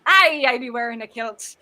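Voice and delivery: playful Highlands-pirate brogue; mock Highlands lilt; Highlands accent. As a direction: joke in a put-on Highlands accent. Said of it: "I should be on the Highlands".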